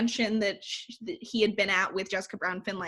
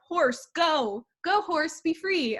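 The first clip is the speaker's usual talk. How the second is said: higher-pitched mock send-off; retold plea, pitched up; acted urging; 7 semitones higher, slower than usual. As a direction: lightly act out urging a horse away. Retelling hero's farewell to horse.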